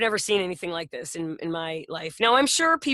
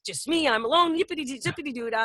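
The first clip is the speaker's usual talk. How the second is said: gleeful dog voice. Pretend. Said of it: "Ziggy's running in circles".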